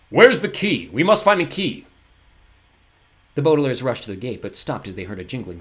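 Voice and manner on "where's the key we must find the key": louder, higher frantic call; panicking for the key. Acted. Poe searches for the key, frantic.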